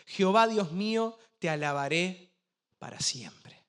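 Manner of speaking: declaimed scripture reading, phrase by phrase with pauses; lectura solemne del salmo. Acted. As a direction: proclaim the psalm, lifting the openings and dropping at the closes. Reads the psalm aloud. (salmo declamado con solemnidad, por frases)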